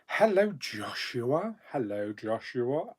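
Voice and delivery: slow, sing-song hello; drawn-out hello. Acted. Greeting a viewer in chat, drawn out. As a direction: stretch the greeting out playfully.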